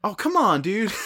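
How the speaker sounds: loud, high mock protest; playful protest. Real, not acted. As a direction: protest it, half laughing. Mock outrage at Chucky joke.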